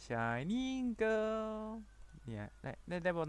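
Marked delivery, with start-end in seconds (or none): 0.0-1.6 high, softer, long-held anime cry; JoJo-style cry. Acted. Gamer showing the JoJo reference, softer drawn-out high cry. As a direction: draw it out high but held back. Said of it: "แบบโจโจ้ไง".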